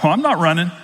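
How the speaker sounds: half-laughing, fake outrage at the guide; laughing mock rant. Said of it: "I thought".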